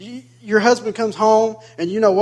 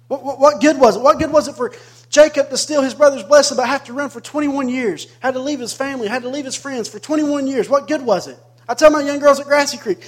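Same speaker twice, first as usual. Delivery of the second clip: raised, higher-pitched preacher delivery; impassioned preaching; 5 semitones higher, 6 dB louder than usual. Real, not acted. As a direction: press the point on the congregation. Preaching builds to forceful appeal.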